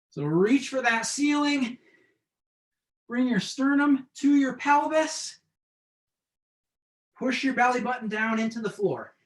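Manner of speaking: straining through crunches; doing crunches. Real, not acted. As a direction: talk while crunching up. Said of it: "This is more of a crunch".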